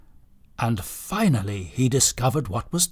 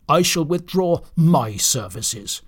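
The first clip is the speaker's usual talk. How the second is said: counter-threat with weight on MY; stress on MY; 3 semitones higher than usual. Acted. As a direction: echo the threat, hitting MY. Donner echoes Blitzen's threat back.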